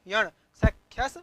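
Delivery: teacher calls out सख्यस loud and firm; loud emphatic answer. Shown as a demonstration. Teacher stresses the form for students, loud. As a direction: punch सख्यस out to the class. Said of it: "क्या किया?".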